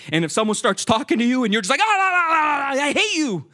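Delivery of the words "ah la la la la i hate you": high, sing-song dismissive la-la; mocking sing-song. Someone on a bad day mocking a person who talks to them, taunting sing-song. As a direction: brush them off in a taunting tune.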